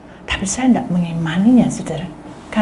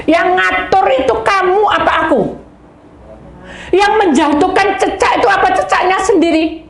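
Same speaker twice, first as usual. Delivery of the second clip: preaching emphasis; 8 semitones higher, 4 dB louder than usual. Acted. Preaching God's question emphatically.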